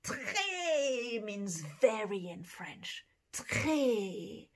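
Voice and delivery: très said as "tray", rolled r barely heard; teaching très. Shown as a demonstration. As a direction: model très slowly for children. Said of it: "that word is très".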